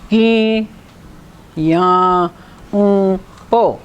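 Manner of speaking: "a, be, tu, ki, le" each syllable split; teacher breaking a sentence apart. Shown as a demonstration. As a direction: sound out syllables with pauses. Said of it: "if you start breaking it up, like here".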